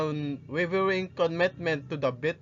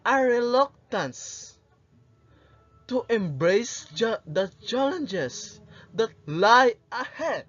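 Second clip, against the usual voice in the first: passionate monologue. Acted. Rizal addressing the youth of his country, passionate and inspiring. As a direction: deliver a stirring speech, weighing each phrase. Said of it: "direct address and passionate tone".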